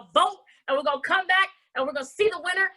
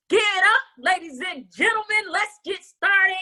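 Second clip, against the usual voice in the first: hype announcer; 3 semitones higher than usual. Real, not acted. Host brings Jonah back on.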